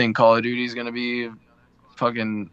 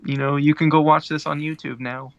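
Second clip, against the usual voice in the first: lightly put-on higher co-host voice; Donovan; 4 semitones higher than usual. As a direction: playfully mimic your co-host's plug. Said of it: "That's not what you sound like".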